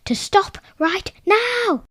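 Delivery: high, loud commanding call; royal command. Acted. King commands the troll to stop, loud and firm. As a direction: order him to stop with full authority.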